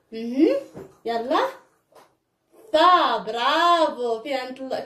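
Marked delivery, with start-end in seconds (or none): 2.7-3.2 loud فا as "fa"; fatha syllable. Shown as a demonstration. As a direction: model فا loudly, opened on the "a". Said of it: "كيفاش غادا نديرو نطقوه؟".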